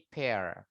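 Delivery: "pear" said PER, like the English word and not the Indonesian pir; pronounced pear. Shown as a demonstration. Teacher correcting kids who read it as pir. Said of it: "Bacanya bukan pir ya".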